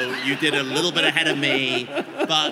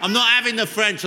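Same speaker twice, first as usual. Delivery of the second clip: mock London rant; 2 semitones higher than usual. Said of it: "it's so London".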